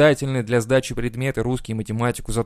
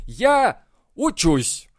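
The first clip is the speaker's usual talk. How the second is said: high, slow, indifferent C-student drawl; 6 semitones higher, much slower than usual. Retold or imitated. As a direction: drag it out like a bored mediocre pupil. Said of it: "Типа".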